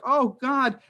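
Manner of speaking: mildly wailed imitation; imitated crying. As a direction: retell a distressed congregant's cry, lightly hammed-up. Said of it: "And they're crying".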